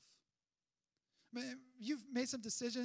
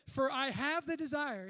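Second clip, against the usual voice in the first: slow emphatic quote; 3 semitones higher, 9 dB louder than usual. Acted. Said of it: "He says".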